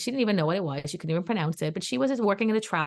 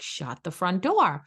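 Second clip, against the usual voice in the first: amazed; much slower than usual. Retold or imitated. Amazed reply, slow.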